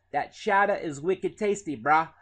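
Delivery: lively Boston accent, dropped final R. Shown as a demonstration. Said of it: "something from Boston".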